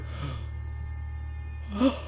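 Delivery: sharp intake of breath; shocked gasp. Real, not acted. Reader appalled by the story, shocked gasp. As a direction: gasp in disbelief. Appalled at what he just read.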